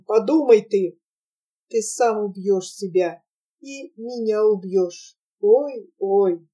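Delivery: a quiet, sorrowful plea, lightly voiced; quiet, sad. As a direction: speak softly and sadly, pleading him to forget. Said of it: "сказала ему тихо, грустно".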